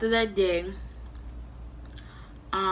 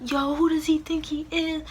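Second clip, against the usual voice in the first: retold indignation; 7 semitones higher than usual. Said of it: "he was like".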